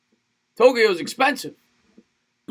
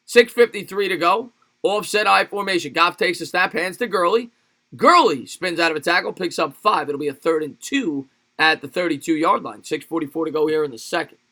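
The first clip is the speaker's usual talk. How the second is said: brisk football commentary voice, lifted at the start; live play-by-play; 3 dB louder than usual. Real, not acted. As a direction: call the play as it unfolds. Calls the live game play.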